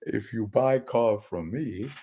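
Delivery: put-on Indian accent, car salesman pitch. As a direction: imitate an Indian car seller at a dealership. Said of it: "I don't really do Indian impressions, but I'll try".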